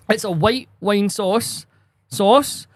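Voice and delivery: "white wine sauce" drawn out slowly, "sauce" repeated; slow, pointed emphasis on "sauce"; exasperated correction. Retold or imitated. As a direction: stretch "sauce" as if to someone not getting it. Correcting a customer's silly misunderstanding.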